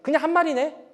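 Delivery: mock the parent's empty words; scoffing child. Child dismissing the parent's loving words, scoffing. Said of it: "그럼 아이들은 앞에는".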